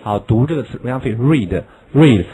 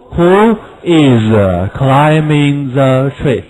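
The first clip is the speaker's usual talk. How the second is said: slow who is kept apart; who is, not linked; slow unlinked form; much slower than usual. Shown as a demonstration. Teacher shows unlinked words before linking. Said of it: "可以连读".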